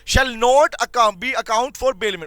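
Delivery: words spaced out for note-taking; slow classroom dictation. Shown as a demonstration. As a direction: dictate it slowly for the class to copy. Teacher dictating notes.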